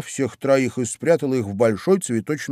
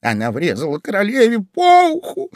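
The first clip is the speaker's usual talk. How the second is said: high, excited character voice; rabbit confiding; 9 semitones higher, 5 dB louder than usual. A narrator's reading. Rabbit tells Alice the duchess's crime, excitedly confiding. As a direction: blurt the gossip in a raised voice.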